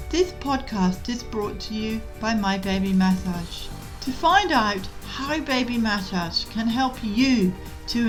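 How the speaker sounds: measured, clearly articulated scripted read; podcast intro read. Real, not acted. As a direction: read the show's intro in even, deliberate phrases. Recorded podcast intro and disclaimer.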